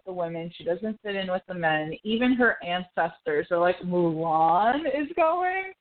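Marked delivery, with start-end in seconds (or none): 3.8-5.7 higher, drawn-out incredulous question; mock disbelief. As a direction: stretch it out like scandalized ancestors. Ancestors' shocked reaction in retelling.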